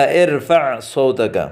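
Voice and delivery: ارفع صوتک drawn out at half speed; slow model reading. Shown as a demonstration. Teacher repeats the phrase for students, very slowly. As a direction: say ارفع صوتک slowly, each word clear. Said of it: "ہم عربی میں جو جملے استعمال کرتے ہیں".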